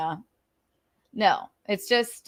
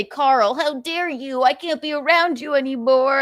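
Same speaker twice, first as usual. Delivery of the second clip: mock outraged scold; 5 semitones higher than usual. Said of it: "I would never say".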